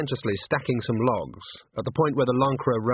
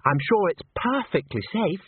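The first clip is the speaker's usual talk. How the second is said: high, lilting reassurance; trilling; 8 semitones higher than usual. A narrator's reading. Christine reassures Agnes about the chandelier, trilling. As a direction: trill it brightly, pitched high. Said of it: "trilled Christine".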